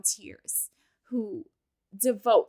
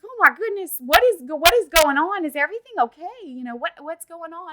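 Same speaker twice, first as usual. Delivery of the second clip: kind, concerned nurse; 5 semitones higher, 4 dB louder than usual. Retold or imitated. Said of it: "She was so nice".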